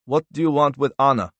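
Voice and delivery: a hint of an anxious husband; alarmed questioning. A narrator's reading. Startled man questions an intruder.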